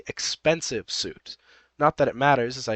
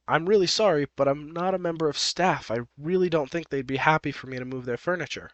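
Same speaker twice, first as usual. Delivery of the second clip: polite apology; 3 semitones higher than usual. Acted. Narrator voices OP turning down the bossy woman, politely apologetic. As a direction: politely beg off, pitched up at first. OP's polite refusal in read story.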